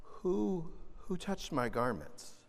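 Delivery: soft, quiet, searching question; gentle. Retold or imitated. Jesus gently asking the crowd, soft and tender. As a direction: ask it gently, with no blame. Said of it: "So gently, Jesus says".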